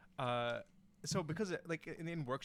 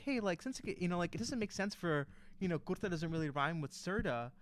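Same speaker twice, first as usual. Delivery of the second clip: higher, hedging retold complaint; polite, halting correction, pitched up; tentative objection; 5 semitones higher than usual. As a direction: raise it gingerly with the writer. Retold awkward approach to songwriter.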